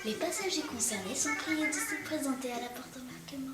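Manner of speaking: airport announcement voice; boarding call over the intercom; flight attendant voice. Acted. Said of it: "Oh, la voix d'hôtesse de l'air".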